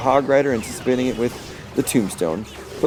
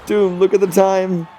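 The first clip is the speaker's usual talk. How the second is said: higher, rising excitement as seconds tick down; excited countdown; 8 semitones higher than usual. Real, not acted. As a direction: count it down like the final seconds of a match. Countdown to tower falling.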